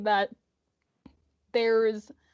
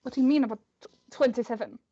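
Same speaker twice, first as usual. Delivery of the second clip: halting attempted character accent; Kriv; much faster than usual. Kriv questioning a scared child, halting character accent. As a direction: try the accent, stumbling on the words. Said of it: "I can do this accent".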